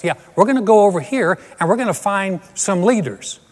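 mock on-the-scene news report; a hint of a serious TV correspondent; TV news reporter. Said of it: "some guy standing there going".

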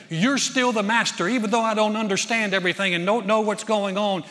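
loud, high preaching of her faith; powerful declaration. Retold or imitated. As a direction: proclaim her trust with force. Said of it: "she says something powerful".

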